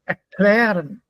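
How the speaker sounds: Erklären with KLÄ stressed; light ER, strong KLÄ in Erklären; stress on second syllable. Shown as a demonstration. Teacher giving non-separable Erklären, stress on KLÄ. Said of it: "not separable".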